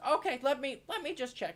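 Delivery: nervous adventurer checking; Jacques voice. Acted. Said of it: "so he goes".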